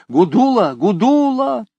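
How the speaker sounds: very high, loud calling. A narrator's reading. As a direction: shout her name desperately. Calling out desperately.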